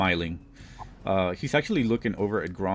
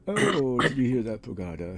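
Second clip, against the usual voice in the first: put-on old hag; 5 semitones higher, 4 dB louder than usual. GM voices mocking devil.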